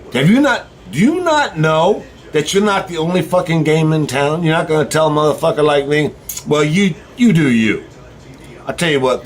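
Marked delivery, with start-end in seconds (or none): 0.1-7.8 retold exasperation. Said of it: "but I was like".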